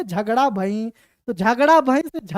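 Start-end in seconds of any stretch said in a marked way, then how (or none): 0.0-0.9 a hint of an old man's nasal voice on 'झगड़ा भई'; nasal elder mumbling 'झगड़ा भई'. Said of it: "नाक में बोले".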